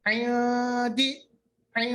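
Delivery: عین دی with the n half hidden, not nasal; ikhfa hidden nun. Shown as a demonstration. Teacher models ikhfa on عین دی. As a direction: say عین دی with the n kept in the mouth. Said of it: "مگر ہم پڑھیں گے کیسے؟".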